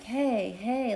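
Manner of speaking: Eugene yelling. Retold or imitated. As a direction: imitate calling out to distracted people. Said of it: "Eugene's yelling at them".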